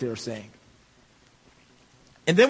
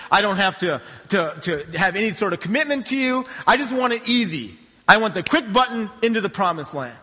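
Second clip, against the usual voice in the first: acting out entitled complainers pleading with God; higher-pitched mock protest, piling up demands; mock complaint; 5 semitones higher, 5 dB louder than usual. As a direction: play an exasperated people griping at God. Israelites' whining complaint to God, acted.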